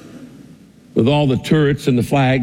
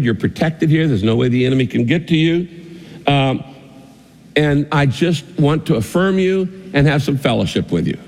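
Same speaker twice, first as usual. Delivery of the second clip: loving king's voice; 3 semitones lower than usual. Acted. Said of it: "the king says to you in a loving voice".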